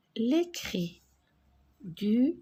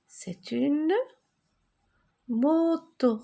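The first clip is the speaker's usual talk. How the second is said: excited reveal; 6 semitones higher, slower than usual. Shown as a demonstration. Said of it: "teacher reveals the word".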